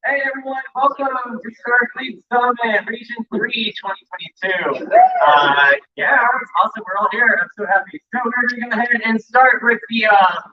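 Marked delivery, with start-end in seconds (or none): 0.1-7.4 booming bridge troll welcome. Acted. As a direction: greet them like a Renaissance Fair troll. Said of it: "you want me to do my troll voice".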